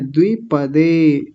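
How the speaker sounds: द्विपदे as "dvi-pa-de", syllables spelt out; v sounded. Shown as a demonstration. Teacher reading it as written, द्विपदे with dvi. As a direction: join d and v at the start of द्विपदे. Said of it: "ऐसा बोला जाएगा".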